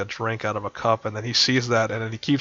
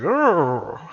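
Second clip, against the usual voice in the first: higher-pitched animal noise of excitement; eager creature trill; excited creature growl; 7 semitones higher than usual. Acted. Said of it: "so he's excited".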